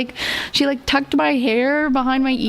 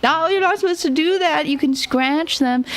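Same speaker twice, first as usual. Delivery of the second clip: quick, higher scolding tone; a light imitation of a fussy scold; mock scolding; 4 semitones higher than usual. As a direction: tell off a careless customer quickly. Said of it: "scolded me".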